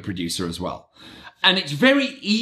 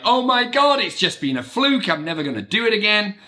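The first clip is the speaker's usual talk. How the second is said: mock worry; 5 semitones higher than usual. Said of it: "kind of like".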